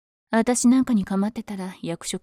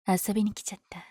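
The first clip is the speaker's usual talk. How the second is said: whisper; faster than usual. Acted. Playful greeting to hero.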